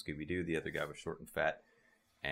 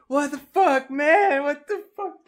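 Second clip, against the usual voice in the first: high, loud whiny voice; laughing impression of a hurt stoner; dazed guy in pain; 14 dB louder, slower than usual. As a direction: play the kicked guy, squealing. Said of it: "he's like".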